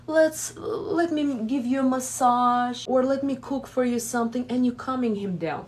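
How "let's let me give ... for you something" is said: soothing. Retold or imitated. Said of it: "it's like".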